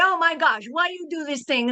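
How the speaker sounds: put-on Romanian accent. Explaining how a Romanian accent sounds, then demonstrating a Romanian accent. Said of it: "but it's a Romanian accent".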